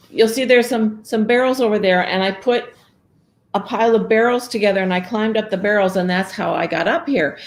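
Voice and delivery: high, rushed frightened confession; mildly frightened girl telling the ogre; scared girl. Acted. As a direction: blurt the truth fast. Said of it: "so scared".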